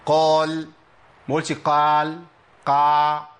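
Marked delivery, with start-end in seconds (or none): 0.1-0.7 قال with a heavy, rounded "qawl"; partly open qaf. Shown as a demonstration. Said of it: "يبقى انفتاح عندي إيه؟". 1.5-3.3 قال with a wide-open, thinner "qaa"; over-open qaf. Shown as a demonstration. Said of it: "لا، ما عملش انفتاح كامل كده،".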